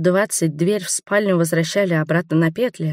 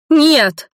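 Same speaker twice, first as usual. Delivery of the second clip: much higher, loud outcry; cried out; 10 semitones higher, 8 dB louder than usual. A narrator's reading. Heroine cries out to stop her husband's fight, loud and high. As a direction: shout to stop them. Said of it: "выкрикнула я".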